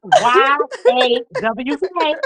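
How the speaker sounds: "Y A W K" spelled slowly, letter by letter; spelled-out accent. Retold or imitated. Friend praising the accent, stretching "Y A W K" slowly. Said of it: "Even when you said New York".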